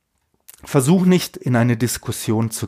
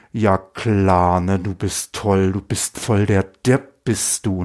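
mocking inner voice; 4 semitones lower, slower than usual. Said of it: "da klettert so eine Stimme die Wirbelsäule hoch".

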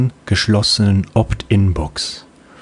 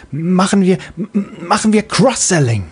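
put-on high, bright young girl's voice; little child voice; 9 semitones higher than usual. Little Freebie replying to her mother, high childlike voice. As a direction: play a sleepy little kid answering mom.

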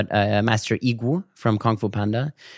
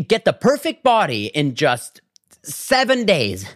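ad hype; 4 semitones higher, slower than usual. Retold or imitated. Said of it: "It was like".

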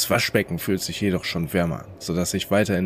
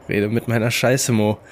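giggly taunt, a bit higher and louder; giggling; 4 semitones higher, 5 dB louder than usual. A narrator's reading. Prisoner giggles a taunt at the voice Mo, giggling. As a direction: giggle it out at the voice in his head. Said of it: "sage ich kichernd".

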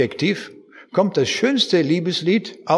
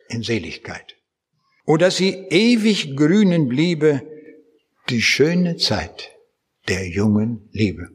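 poem recitation; slower than usual. Acted. Preacher reciting Schiller to his congregation, slow and tender. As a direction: let each line of the poem linger gently.

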